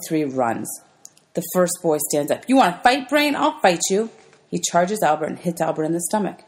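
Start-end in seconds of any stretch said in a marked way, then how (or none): 2.5-4.1 mild challenge. Acted. Bully challenges Albert.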